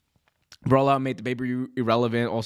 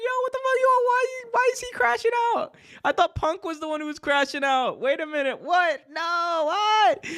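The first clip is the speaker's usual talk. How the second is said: far higher, squealing in shock; stunned disbelief. Retold or imitated. Fan reacting to Tony Khan's outburst, high-pitched shock. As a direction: shriek it like the clip broke your brain.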